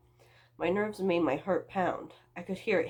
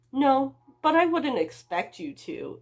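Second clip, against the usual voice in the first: casual stranger; 8 semitones higher, 7 dB louder, slower than usual. Acted. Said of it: "he shrugged".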